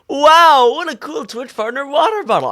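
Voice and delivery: high squeaky character voice; Jurassica voice. Acted. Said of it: "Aren't you glad I'm here for the bit?".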